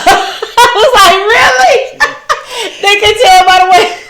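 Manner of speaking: high squealing laugh through words. Real, not acted. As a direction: laugh it out in disbelief. Laughing at coworkers' claim.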